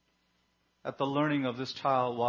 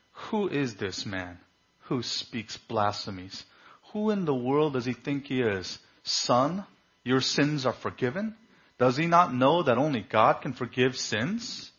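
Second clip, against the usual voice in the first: mild scoffing. Retold or imitated. Pharisees after Jesus forgave the paralytic, mild scoffing. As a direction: lightly act out a scoffer's rising disbelief.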